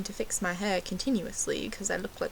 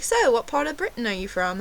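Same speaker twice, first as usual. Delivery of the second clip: raised-pitch mock American waiter; American accent; 4 semitones higher, 3 dB louder than usual. Waiter quizzing the supposed Brit, imitated American accent. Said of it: "That's my American accent".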